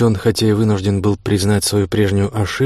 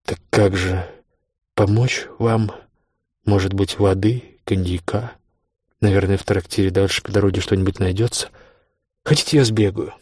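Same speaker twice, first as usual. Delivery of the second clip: feigned sympathy. A narrator's reading. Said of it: "с хорошо разыгранным сочувствием".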